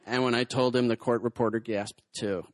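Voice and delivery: low, mock-solemn testimony; impersonated long-suffering woman, low and deadpan; doing her voice. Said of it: "I'm gonna have to do the voice".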